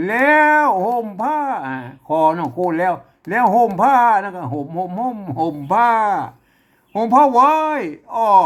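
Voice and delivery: teacher's read-aloud in Tai Yuan lilt; Lanna Tai Yuan accent. Shown as a demonstration. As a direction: sound out the phrase in a Lanna accent. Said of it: "สำเนียงของไต้หวัน ละนา".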